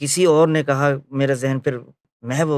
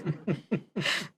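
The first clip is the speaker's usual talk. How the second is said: a soft imitated hearty laugh; a quiet, retold burst of laughter; 4 semitones higher, 10 dB quieter than usual. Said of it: "مسکرائے بہت زور سے". (زور سے ہنسنے کی ہلکی سی نقل)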